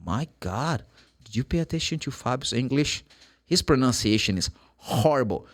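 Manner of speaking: quietly appalled, acted out; mock disapproval. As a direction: mutter an imagined listener's criticism. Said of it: "people are gonna look at you and say".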